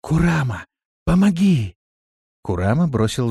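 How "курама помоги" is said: зовёт из глубины колодца; крик снизу из колодца; приглушённый зов. A narrator's reading. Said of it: "приглушённый голос". (приглушённо зовя на помощь)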